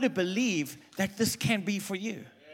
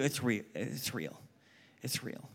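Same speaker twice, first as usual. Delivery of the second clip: hushed solemn insistence; 7 semitones lower, 9 dB quieter than usual. Real, not acted. Preacher warning of demons, hushed and solemn. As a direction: drop low and soft.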